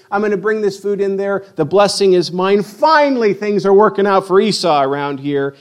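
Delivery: gleeful, mounting anticipation; all excited. Acted. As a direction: crow it like someone whose luck has finally turned. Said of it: "he's all excited".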